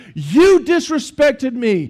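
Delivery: put-on angry old man voice, high furious scream. Retelling an 80-year-old man in line screaming at her, imitating a man screaming. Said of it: "he's screaming at her".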